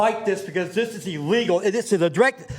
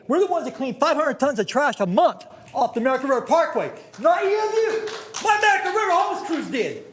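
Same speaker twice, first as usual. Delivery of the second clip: real anger rising, pitch climbing higher; mad; 5 semitones higher than usual. Real, not acted. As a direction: push back hard, angry and indignant. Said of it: "I'm, I'm mad right now".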